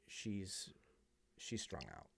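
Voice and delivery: put-on boyfriend's voice. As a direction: drop it down and mutter it like the boyfriend.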